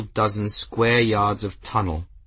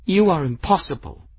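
laughing through tears; 8 semitones higher, 4 dB louder than usual. Acted. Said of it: "She choked out a laugh".

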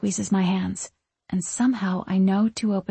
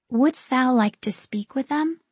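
put-on sweet ghost girl, pitched higher; 5 semitones higher than usual. A narrator's reading. Ghost girl offering a chance to see family, sweetly. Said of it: "she asks sweetly".

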